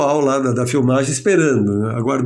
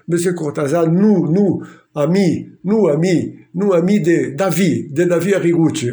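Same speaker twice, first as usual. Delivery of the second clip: put-on halting, stammered schoolboy French with a Brazilian accent, raised; broken French; 4 semitones higher, slower than usual. Greeting Cortázar nervously in terrible French, stammering. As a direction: fumble through bad French, a bit higher. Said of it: "com esse francês horrível".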